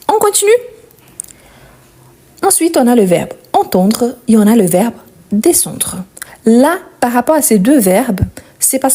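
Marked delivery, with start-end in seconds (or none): 2.5-6.0 whispered aside. Real, not acted. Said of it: "unvoiced line".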